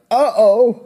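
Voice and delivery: high, loud comic dismay; alarmed uh-oh. Acted. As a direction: react as if trouble just struck. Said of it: "and he's like".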